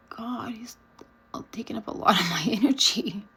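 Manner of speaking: breathy whisper, laughing at the end; whispered aside. Retold or imitated. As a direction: whisper it like a guilty secret. Inner thought, exasperated.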